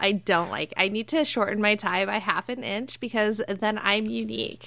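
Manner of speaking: put-on valley girl. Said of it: "Valley accents".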